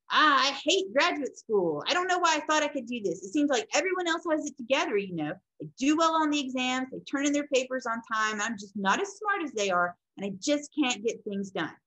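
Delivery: a touch of self-doubting frustration; frustrated student. Acted. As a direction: voice an overwhelmed student venting. Acting a struggling grad student.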